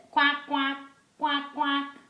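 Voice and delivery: lightly imitated duck quacks. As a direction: quack in pairs like a duck for a child. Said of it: "The duck says".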